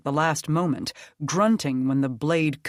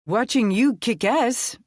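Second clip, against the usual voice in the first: loud, higher teasing call; calling back; 8 semitones higher, 5 dB louder than usual. A narrator's reading. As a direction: shout a cheeky reply across the fight. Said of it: "Etienne called back".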